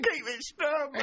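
high and slow through laughter; laughing slowly. Acted. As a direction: drag it out while laughing.

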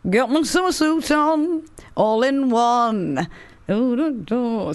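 a singer's voice. Pretend. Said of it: "you sound like a singer then".

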